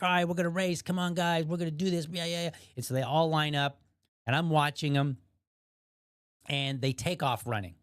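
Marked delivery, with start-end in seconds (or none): 0.0-2.5 higher-pitched imitation of an eager boy; rally the guys like a kid before a race; mock kid pep talk, held high; excited kid rallying friends.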